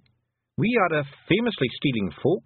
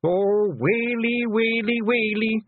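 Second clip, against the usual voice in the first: hammed-up, loud lament; high wail; 12 semitones higher, 4 dB louder, much slower than usual. A narrator's reading. Twiddler hears of stolen brother, high wailing. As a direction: wail it out high, like a tiny man in despair.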